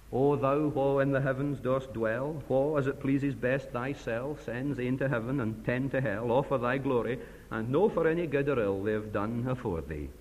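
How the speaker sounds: put-on Burns in an Ayrshire Scots accent, read as a grave prayer. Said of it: "I apologize for my, um, accent".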